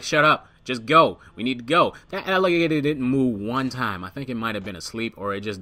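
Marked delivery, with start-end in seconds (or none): 0.0-1.9 urgent command. Retold or imitated. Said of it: "I'm like".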